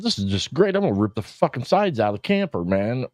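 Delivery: high, exasperated sarcasm about the road; mock-cheerful fury at the rocks; sarcastic gripe. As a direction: sneer "just great" at the narrow road. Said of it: "I said".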